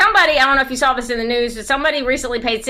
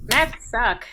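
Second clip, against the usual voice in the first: mock yell; 2 semitones higher, 4 dB quieter than usual. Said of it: "usually yelling".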